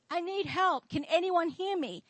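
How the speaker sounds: mild mock cry for help; imitated crying out. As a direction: act out a stranded man's call. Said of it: "And he was crying out".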